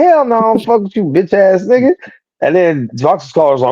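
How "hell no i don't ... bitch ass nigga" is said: retold retort. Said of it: "And I was like".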